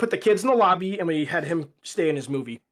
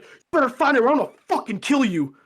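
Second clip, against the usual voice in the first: high, loud mock threat; retold screaming threat; 9 semitones higher, 5 dB louder, faster than usual. Dad threatening the theater worker, imitated screaming. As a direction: shout it as the furious dad being imitated. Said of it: "in the theater screaming".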